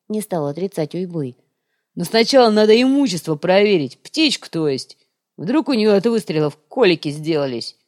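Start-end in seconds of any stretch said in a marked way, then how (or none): 2.0-7.8 lightly voiced goblin boss; goblin chief voice. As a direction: order them in a gruff goblin voice. Chief goblin gives order.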